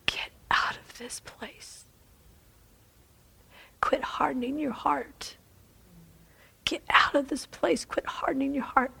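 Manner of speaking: 轻声耳语，缓慢而恳切; hushed whisper. Acted. The Lord speaks to each nurse.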